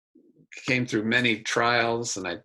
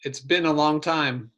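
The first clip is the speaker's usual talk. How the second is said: put-on slightly raised Corkine-accented greeting; 4 semitones higher than usual. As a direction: greet an old friend with a light Corkine accent. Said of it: "in my best Corkine accent".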